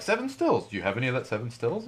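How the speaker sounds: mildly hammed-up curious buyer; imitated eager customers. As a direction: lightly mimic a customer asking around. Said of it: "people are gonna be like".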